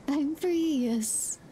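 lightly acted doggy glee; mock freed dog. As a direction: voice the dog's morning relief. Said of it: "That's how she is every morning".

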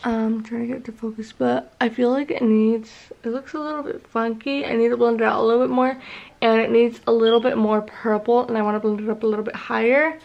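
talking around a retainer; wearing a retainer. Real, not acted. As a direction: retainer in, slightly slurred. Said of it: "it's because I have my retainer in".

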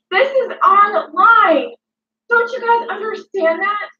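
cracking into tears mid-rant; on the verge of crying over her name; voice breaking. Real, not acted. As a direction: let the sob catch the words. Emotional rant about reputation.

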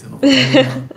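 high laughing refusal. Real, not acted. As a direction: squeal it through a laugh. Laughing refusal, pitch jumps.

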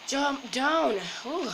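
high, loud urgent shout; excited shout. Real, not acted. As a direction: yell the command in a rush. Urgent game command.

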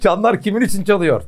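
çanlar lifted high and pushed; pressing the question. Shown as a demonstration. Teacher presses a student on the title, pointed stress. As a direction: put weight on çanlar to call Berat out.

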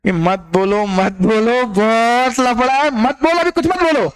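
repeated plea climbing steadily in pitch; rising, insistent caution; urgent warning. Acted. Teacher urging students to stop boasting.

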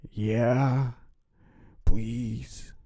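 high, loud little plea; pleading kid. A narrator's reading. Billy backs up Jimmy before the voice, pleading. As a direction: back up a friend's begging.

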